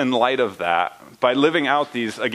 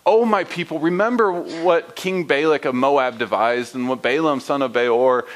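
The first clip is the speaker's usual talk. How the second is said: God pleading with his people. Acted. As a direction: voice God asking his people what he did wrong. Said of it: "Notice the inflection here".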